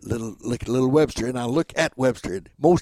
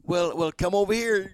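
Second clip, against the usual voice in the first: higher-pitched, coaxing invitation; radio host bit; 6 semitones higher than usual. Shown as a demonstration. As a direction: beckon the little fellow over to the mic. Host beckons duck in radio bit.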